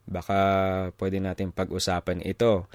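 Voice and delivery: measured, level Tagalog, word by word; careful, slowed Tagalog. Retold or imitated. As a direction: pick carefully through the Tagalog phrase. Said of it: "I had to say that slow".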